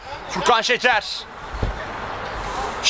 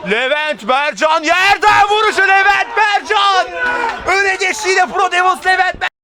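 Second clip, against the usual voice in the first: screaming football commentator; 4 semitones higher than usual. Real, not acted. Goal chance, commentator yells.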